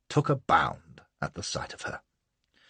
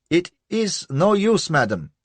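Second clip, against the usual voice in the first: high, slow, pleading little man; cries the little chap; 11 semitones higher, 6 dB louder than usual. A narrator's reading. Little priest's man protesting to Lola, high and pleading. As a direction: beg in a high nervous voice. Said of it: "cries he".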